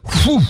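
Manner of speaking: high, sudden whoosh; imitated whoosh. Preacher showing the storm halted at a word, imitated whoosh. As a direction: blow out a quick high whoosh.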